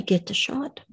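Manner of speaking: soft, coaxing, with a lift at the end; gentle, as to a small child. Pretend. God speaking to a small child, gently coaxing. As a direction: coax a little one softly. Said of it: "He might talk to you as a small child".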